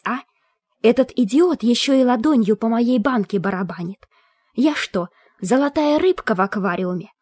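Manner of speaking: high, indignant spectral rant; a furious spirit in a jar; ranting ghost skull. Acted.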